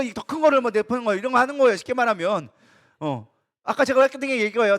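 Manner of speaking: ordinary delivery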